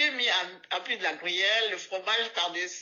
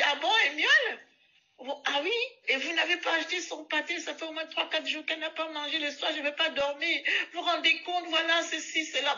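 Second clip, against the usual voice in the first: put-on high, indignant complaining old woman; high old woman ranting; ranting old lady; 6 semitones higher than usual. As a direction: rant like a cross old lady. Old woman rants at speaker.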